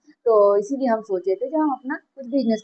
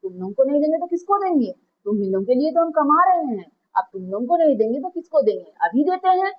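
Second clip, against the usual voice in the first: higher, eager and doting, promising money; a proud seth happily spoiling his daughter; a lightly voiced fond father, pitched up; indulgent rich father; 5 semitones higher, faster than usual. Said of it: "तो सेठ कहता है कि".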